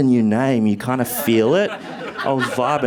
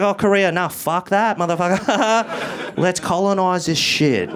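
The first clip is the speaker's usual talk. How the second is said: younger self quote; 6 semitones higher than usual. Retold or imitated. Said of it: "I was like".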